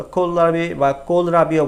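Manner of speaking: কোলরাবি given both ways, plain K and aspirated KH. Shown as a demonstration. Teacher letting learners choose, কোলরাবি with K or KH. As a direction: contrast the first sound of কোলরাবি, kol versus khol. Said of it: "ক বা খ যেটা আপনার মন চায় উচ্চারণ করেন".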